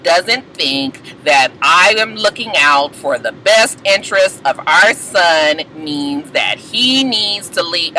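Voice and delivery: slow, low, lightly voiced Moniece; imitating Moniece. Recapper quoting Moniece, slow and low. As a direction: drag it out like a calm confessional.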